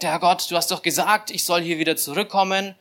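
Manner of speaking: retold anxious, protesting prayer; panicked prayer. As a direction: imitate a man arguing with God in mild panic. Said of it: "so ein totaler Panikmodus irgendwie".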